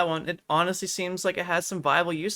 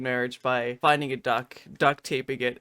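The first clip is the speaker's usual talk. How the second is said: "finding a duck, duct taping it" lower and softer, fake-contrite; mock remorseful retelling; 10 semitones lower, 5 dB quieter than usual. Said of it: "I'm just tearing up a bit more".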